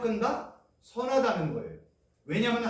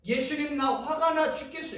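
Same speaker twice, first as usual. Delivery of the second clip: angry prayer; 7 semitones higher than usual. Shown as a demonstration. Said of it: "이건 엄청난 기도예요".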